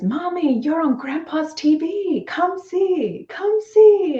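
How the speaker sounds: put-on a small girl calling her mum over to the TV; little daughter's voice. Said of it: "and she says".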